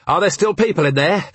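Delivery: high-pitched urgent demand, rising at the end; urgent question. A narrator's reading. Urgent questioning during a fire.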